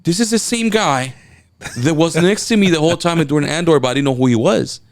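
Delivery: high, astonished inner voice; reliving the shock of recognition; retold amazed realization. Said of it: "I was like".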